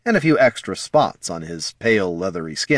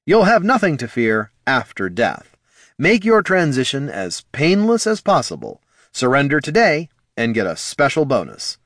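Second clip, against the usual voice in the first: raised, pitchy sales pitch; grim ad voice; 6 semitones higher than usual. Acted. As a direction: read it like a grim advert. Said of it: "It read".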